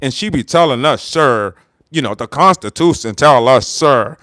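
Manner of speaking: lightly voiced presidential impression, low pitch; Trump. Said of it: "this is what Trump said".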